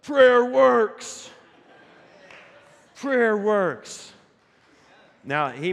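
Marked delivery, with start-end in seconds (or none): 0.0-4.1 high, loud victory cry; triumphant shout. Retold or imitated. Son celebrating the win, shouting high and loud. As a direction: crow it out in triumph. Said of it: "and Eli goes".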